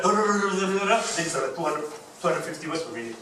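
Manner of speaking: mock excited rush of talk; excited rate. Shown as a demonstration. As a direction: rattle it off as if very excited. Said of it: "if you're very excited".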